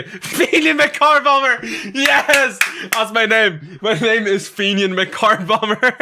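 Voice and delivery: high, laughing announcement of the fake name. Real, not acted. Streamer laughing as he reads his new name. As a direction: crack up while saying it.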